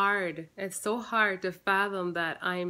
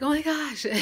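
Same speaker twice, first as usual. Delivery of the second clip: excited gasp; 8 semitones higher, 5 dB louder than usual. Retold or imitated. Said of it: "I was super excited".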